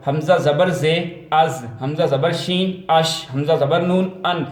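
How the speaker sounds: slow recited drill of letters and vowel marks; teacher's slow phonics chant; spelling-out demo. Shown as a demonstration. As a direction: spell each piece evenly, then say the joined از، اش، ان. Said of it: "اس طریقے سے".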